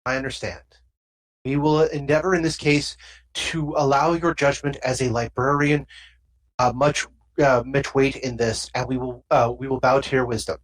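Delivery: low, formal alien diplomat. Acted. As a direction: speak as a solemn alien envoy. GM voices Pakh Mara diplomat.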